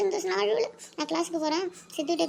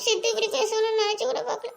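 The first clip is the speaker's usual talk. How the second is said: tearful; 5 semitones higher than usual. Acted. Kayu hurt after Sidhu's words.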